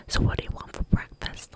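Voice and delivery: imitating his loud question, still in a hush; super loud. Host asking her about breakfast, whispered mock shout. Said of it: "Like, super loud".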